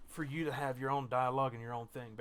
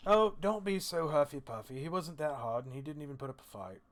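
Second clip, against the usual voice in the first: tipsy dwarf; 2 semitones higher, 4 dB louder than usual. Acted. Drunk dwarf teasing the princess about an easy fight, tipsy dismissal. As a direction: brush it off with boozy ease. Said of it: "He goes".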